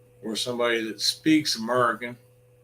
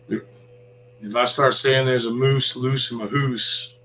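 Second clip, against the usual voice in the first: slow, hammed-up Canadian accent on moose and hoose; mock Canadian accent; 3 dB louder, slower than usual. Ranting caller doing a slow joke Canadian accent. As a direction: put on a goofy Canadian accent. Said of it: "then I make it funny".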